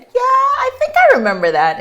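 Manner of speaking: high squeaky mock-calm answer; mock casual reply. Patient retelling her answer to the doctor, high and mock-calm. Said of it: "So I said".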